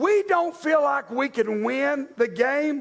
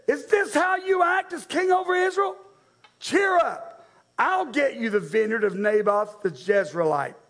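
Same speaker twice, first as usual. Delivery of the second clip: scolding wife. Retold or imitated. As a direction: belittle him like a bossy queen. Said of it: "look how Jezebel responds".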